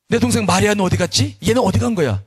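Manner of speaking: acted flustered big sister; flustered searching. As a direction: call around for her, getting worked up. Acting Martha searching for Mary.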